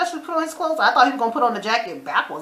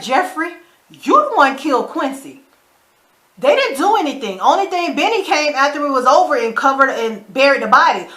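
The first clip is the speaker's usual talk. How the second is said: louder, higher-pitched scolding; exasperated rebuke; 4 semitones higher, 5 dB louder than usual. Retold or imitated. Viewer scolding Jeffrey over who killed Quincy, exasperated. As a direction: argue the point at Jeffrey.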